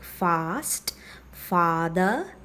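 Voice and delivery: "fast" and "father" with a long open "ah". Shown as a demonstration. Teacher giving examples of an open vowel, long "ah" in "fast", "father". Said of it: "ah sound that you find in words like".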